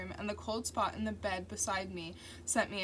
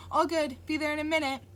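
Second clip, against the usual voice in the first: upbeat reply; 7 semitones higher, 6 dB louder, faster than usual. A narrator's reading. Narrator's typed reply voiced.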